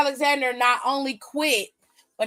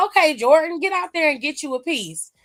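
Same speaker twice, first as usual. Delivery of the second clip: hyped cheer; 4 semitones higher than usual. Retold or imitated. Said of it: "I was like".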